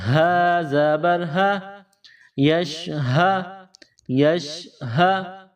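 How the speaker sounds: ہا breathed out slowly like a puff of air; airy ha. Shown as a demonstration. Teacher showing pupils how ہا is breathed. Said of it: "منہ سے ہوا نکالنے کی طرح".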